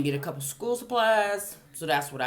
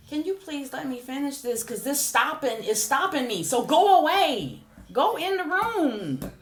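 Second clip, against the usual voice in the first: exasperated mom; 9 semitones higher, 4 dB louder than usual. Real, not acted. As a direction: send the interrupting son to his room. Shooing her son out mid-video.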